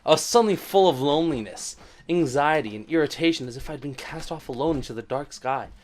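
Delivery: out of breath. Acted. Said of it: "This is just acting".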